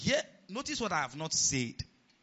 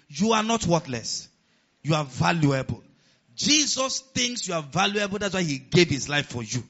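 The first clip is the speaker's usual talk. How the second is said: preaching at full force; 6 dB louder than usual. Real, not acted. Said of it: "preaching reassurance to congregation".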